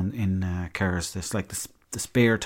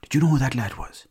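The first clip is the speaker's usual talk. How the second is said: mechanic voice; 4 semitones higher than usual. Retold or imitated. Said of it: "he goes".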